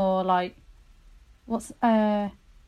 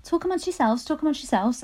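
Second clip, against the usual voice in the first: teacher voice; 4 semitones higher than usual. Retold or imitated. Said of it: "and they're like".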